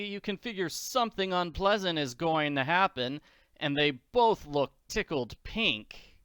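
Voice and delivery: a hint of a spunky orphan; Annie voice.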